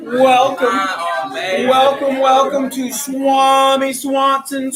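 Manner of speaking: loud, grand carnival welcome; booming fortune teller announcer. Acted. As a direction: announce the booth like a showman. Loud booth greeting.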